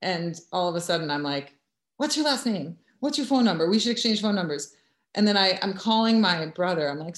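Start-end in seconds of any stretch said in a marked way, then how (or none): 2.0-4.7 panicked questions. Retold or imitated. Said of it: "Wake up with a panic".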